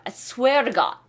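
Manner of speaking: "to" said as a quick "r"-like tap in "I swear to God"; flapped to. Shown as a demonstration. 학생들에게 to를 르처럼 발음하는 시범. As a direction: say "to" as "ruh", a light flap. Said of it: "to는 르로 발음 나요".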